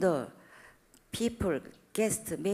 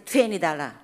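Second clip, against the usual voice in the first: raised price demand; 2 semitones lower, 7 dB louder than usual. Retold or imitated. Wife raising the price.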